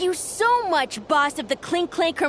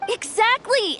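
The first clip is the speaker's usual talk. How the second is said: eager agreement; 6 semitones higher than usual. Acted. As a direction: burst out in agreement. Kid eagerly agrees with Boss.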